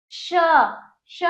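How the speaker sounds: श with the hiss pushed hard; stressed sha sound. Shown as a demonstration. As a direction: press into the श, give it force. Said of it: "ये वाले श को थोड़ा जोर देके बोलेंगे". (श को थोड़ा ज़ोर देकर बोलिए)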